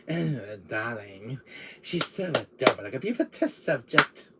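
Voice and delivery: female Wesker. Acted. Showing the female Wesker side, gushing villainess voice. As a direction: gush like a villainess. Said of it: "you see my female Wesker side".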